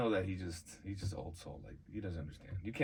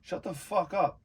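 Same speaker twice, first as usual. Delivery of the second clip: higher-pitched annoyed yell; retold anger; 9 semitones higher, 4 dB louder, slower than usual. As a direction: snap at a barking dog, voice raised. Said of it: "And I get mad".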